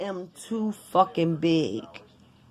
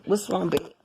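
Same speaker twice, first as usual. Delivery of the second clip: sleepy concern. Retold or imitated. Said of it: "I'll be like".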